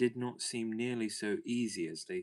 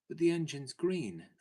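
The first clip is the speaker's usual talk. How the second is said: high, loud indignant objection; surprised protest; 9 semitones higher, 7 dB louder than usual. A narrator's reading. Phyllis to the porter, objecting in high surprise. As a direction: insist the engine's green, amazed.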